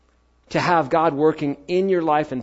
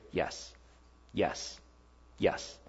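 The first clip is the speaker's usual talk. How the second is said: soft inner yes; 8 semitones lower, 14 dB quieter, much slower than usual. Retold or imitated. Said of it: "I start to hear".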